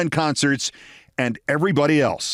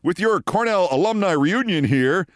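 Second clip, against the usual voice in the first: put-on higher, sing-song old-boy "Say, fellows"; Scott's hearty greeting; 5 semitones higher than usual. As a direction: greet the fellows like a three-piece-suit man. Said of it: "Scott comes over and says".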